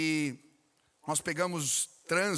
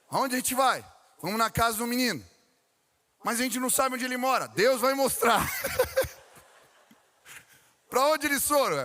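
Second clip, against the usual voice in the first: higher and louder, eager back-and-forth; excited retold dialogue; 7 semitones higher, 6 dB louder than usual. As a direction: play the kids' eager questions, upbeat and quick. (pastor and kids hunting for the boy, excited and loud)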